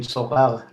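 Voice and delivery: Sorare said the French way, "so-RAHR" with a throaty r; French pronunciation. Shown as a demonstration. Host shows guest the French name, Sorare as French "so-RAHR". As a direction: say Sorare as in French, silent final e. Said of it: "it's French".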